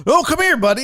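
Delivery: high, loud pet-calling voice; retold coaxing. Owner trying to catch cat, high retold coaxing.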